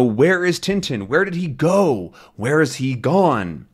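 voiced villain. Villain demanding.

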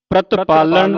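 ਪ੍ਰਤਪਾਲਨ joined without a break; read as one word. Shown as a demonstration. Teacher modelling for a student, ਪ੍ਰਤਪਾਲਨ said as one word. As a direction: run all of ਪ੍ਰਤਪਾਲਨ together. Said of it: "ਇਕੱਠਾ ਪੜ੍ਹਨਾ".

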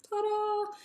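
high bright reveal. Real, not acted. Showing off the toy toilet to viewers, cheerful reveal. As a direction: present it like a magic trick.

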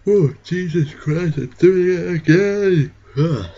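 high, loud, slow exclamation; exasperated outburst. Real, not acted. Gamer scolding himself for the accent, high and loud. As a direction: cry out at yourself, exasperated.

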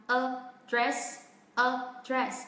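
both syllables of "a dress" on one level pitch; even pitch, no stress. Shown as a demonstration. Teacher drills learners on the first practice step, even pitch on "a dress". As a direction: say "a dress" evenly, neither syllable standing out. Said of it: "có cùng một cao độ như nhau".

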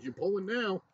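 retold insistent order. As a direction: announce it loudly, like an order. Retold order to bowl on the spot.

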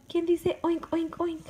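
high, loud playful oink question. Shown as a demonstration. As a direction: squeak it up high like a piglet. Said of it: "reading to baby".

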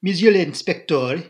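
put-on loud, slow, excited French accent; Poirot, very foreign. A narrator's reading. Poirot excited, to the inspector, very foreign. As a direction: address him grandly in a heavy French accent. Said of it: "Poirot became suddenly very foreign in manner".

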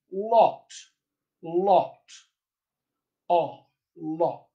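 "lot" with an open back rounded vowel; Received Pronunciation vowel. Shown as a demonstration. Coach giving Received Pronunciation examples, rounded vowel in "lot". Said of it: "That sound appears in received pronunciation".

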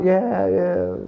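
a quick British regional voice; Birmingham accent. Pretend. Actor showing off his Birmingham accent. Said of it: "is a Birmingham accent".

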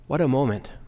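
breathless hushed whisper; awed whisper. Real, not acted. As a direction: let the wonder steal your voice. Awed aside after heavenly voice.

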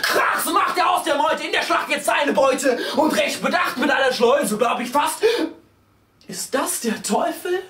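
high-pitched, driving, breathless-sounding recitation; frenzied verse recital. A narrator's reading. Narrator swept along by screeching riders, frenzied recital. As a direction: ride the rhymes like a stampede.

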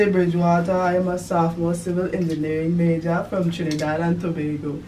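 put-on barely there Trini accent. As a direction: imitate a Trini classmate lightly. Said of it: "I'm going to do my Trini accent".

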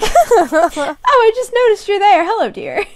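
high, sugary sweet greeting; sweet mum voice. Retold or imitated. Mum greeting Harry sweetly, high sugary voice. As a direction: coo it like a doting mum. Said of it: "she's like".

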